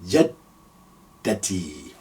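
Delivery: "jaddati" said very slowly, doubled d; slow teaching "jaddati"; slow demo. Shown as a demonstration. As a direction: draw out "jaddati" syllable by syllable. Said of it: "So I say jaddati".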